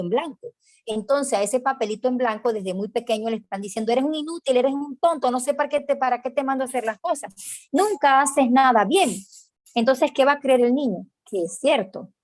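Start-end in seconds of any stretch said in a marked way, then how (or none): 3.9-9.1 a higher, lightly voiced scolding parent; critical parent. Parent telling the little child he is useless, lightly mocking voice. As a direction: put on the voice of a parent tearing the child down.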